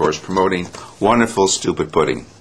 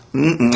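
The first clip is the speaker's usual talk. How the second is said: short pretend "mm-mm" of relish; savouring hum; 3 semitones higher than usual. Receptionist eating before the phone rings, savouring hum. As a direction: hum as if the mouthful is delicious.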